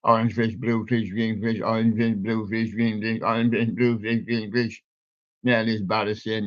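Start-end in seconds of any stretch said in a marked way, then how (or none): 0.0-4.8 fast tongue-twister run of orange fish, blue fish, green fish. Shown as a demonstration. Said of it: "And if you say that fast".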